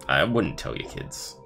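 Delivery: soft, low conspiratorial aside; hushed warning. Acted. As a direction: warn him under your breath.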